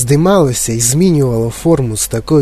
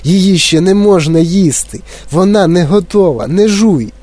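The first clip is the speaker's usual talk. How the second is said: higher, urgent string of no's; anxious pleading; 6 semitones higher than usual. A narrator's reading. Wonka begs the girl not to chew, anxious pleading. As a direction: plead frantically for them to stop. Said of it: "заламував руки, примовляючи".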